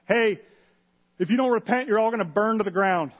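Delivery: a hammed-up doomsday yell; Jonah's warning shout. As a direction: call it out over the crowd like a street preacher. Jonah preaching in the town.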